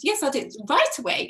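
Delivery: mock Liverpudlian accent. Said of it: "She had the most amazing Liverpudlian accent".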